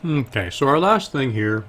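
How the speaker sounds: talking through a mouthful of chocolate; mouth full. Real, not acted. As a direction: speak around a bite of food. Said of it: "Can you stop eating?".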